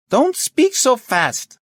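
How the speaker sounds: very high, slow shout; shouting slowly. Acted. Chief to inspector on a bad line, shouting slowly. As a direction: shout each word separately.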